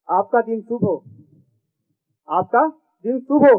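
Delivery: comic verse recited with each line repeated; sing-song stage reading for a laughing crowd; poem recitation. Acted. Poet reciting a comic poem to the audience, rhythmic stage recitation.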